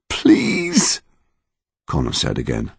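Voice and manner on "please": whispered plea. Acted.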